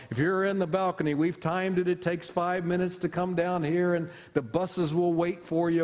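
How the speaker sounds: a lightly voiced evangelist's altar call; hint of a big revival preacher giving the invitation; Billy Graham. Pastor retells his professor's Billy Graham impression, lightly voiced. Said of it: "He could give an invitation".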